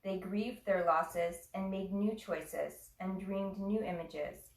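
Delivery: measured reading with pauses between phrases; unhurried recital, phrase by phrase; poem reading. Real, not acted. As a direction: read a poem aloud, letting each phrase settle. Reads a poem to class.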